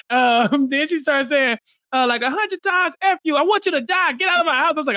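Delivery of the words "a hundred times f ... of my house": mock rage. Retelling Jasmine's furious yelling.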